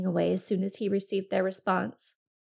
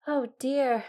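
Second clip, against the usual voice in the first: exclaiming; 4 semitones higher than usual. Acted. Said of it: "exclaimed the fox".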